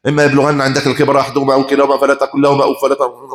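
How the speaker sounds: rattled off fast and mechanical; reading like a machine. Shown as a demonstration. Preacher mimics a careless reader racing through the verse. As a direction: rush through the verse without feeling. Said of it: "بيقرا زي المكنه".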